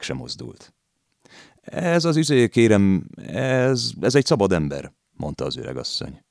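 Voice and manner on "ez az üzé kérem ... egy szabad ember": high, louder ingratiating chatter; fawning landlady. A narrator's reading. Landlady fawns to the detective, higher and louder. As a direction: fawn and play the feeble old woman.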